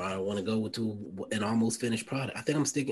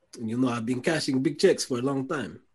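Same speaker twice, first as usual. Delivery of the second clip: loud, bad, laid-on French accent; 3 semitones higher, 6 dB louder than usual. Answering a pretend call about a minimum contract as Nicolas Batum, in a bad French accent. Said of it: "This is a terrible French accent".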